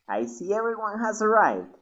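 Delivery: a lightly voiced game teacher; character voice. VTuber voicing a teacher character.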